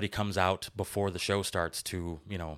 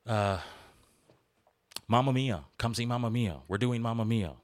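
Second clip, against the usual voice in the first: booming sing song welcome; 4 semitones higher than usual. Retold or imitated. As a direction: hype it up like a carnival barker. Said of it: "It was more like".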